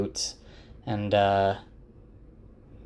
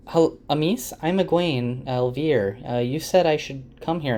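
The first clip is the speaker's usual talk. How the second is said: higher, tentative self-introduction; a hint of a newcomer checking in; lightly voiced Egwene; 4 semitones higher than usual. Greeting Amis as Egwene.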